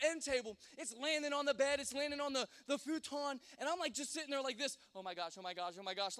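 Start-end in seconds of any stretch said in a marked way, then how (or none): 4.9-6.2 lower, rapid panicked muttering; freaking out. Retold or imitated. Boy watching sparks land everywhere, imitated low panic. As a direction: repeat it in a retold panic. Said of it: "I'm freaking out right now".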